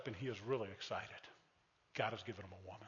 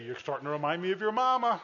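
laughing quote; 3 semitones higher, 7 dB louder than usual. Retold or imitated. Mock husband complaint, laughing.

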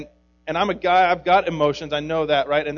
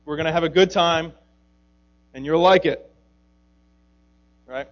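firm parental order, punched louder; mock bossy parent; 4 dB louder than usual. Dad voices Sunday morning orders to the kids, mock insistence. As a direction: lay down the law like a parent, half-joking.

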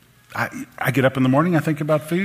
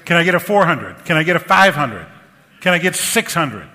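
auctioneer. Acted. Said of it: "I feel like an auctioneer up here".

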